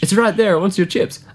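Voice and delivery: high screechy gull voice, rising to a shriek; seagull impression. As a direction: screech it like a gull swooping closer. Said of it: "Anthony's seagull impression".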